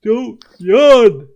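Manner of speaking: loud, high mock scolding; joking yell at the GM; playful shout. Real, not acted. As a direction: bark it across the table. Player shouts at yawning GM.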